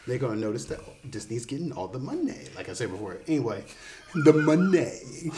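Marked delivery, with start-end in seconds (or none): 4.1-5.4 laughing through the words; slow drawn-out laughing. Pretend. Running joke about money.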